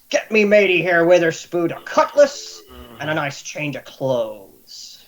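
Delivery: a hint of a gruff pirate captain, slowing at the end. Pirate captain ordering clothes for his new mate. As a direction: bark out orders to the crew.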